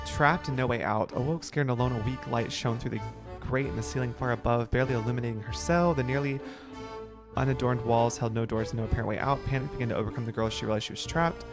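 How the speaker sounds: hushed dramatic storytelling; story narration. Acted. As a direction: read it like a spooky tale. Reads story note aloud.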